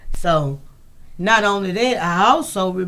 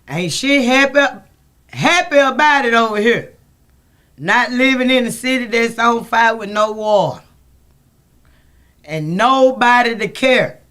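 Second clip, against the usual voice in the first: bitter rant; 3 semitones higher, 5 dB louder than usual. Real, not acted. Bitter complaint about city.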